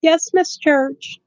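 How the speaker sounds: mock the boy's bored, practised politeness; drawn-out deadpan teenage courtesy; unfazed polite son. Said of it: "He's like".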